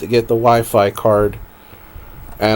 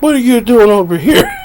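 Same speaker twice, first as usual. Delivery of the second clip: imitating mom; 9 semitones higher, 4 dB louder than usual. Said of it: "she wakes up and it's like".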